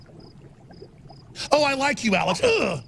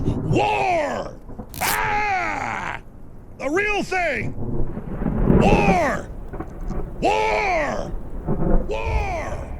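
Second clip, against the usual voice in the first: higher shouts fading into distance; fading war cry; 6 semitones higher, 7 dB quieter, much slower than usual. Acted. Alex declaring war, echoing cry fading. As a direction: cry out and fade away.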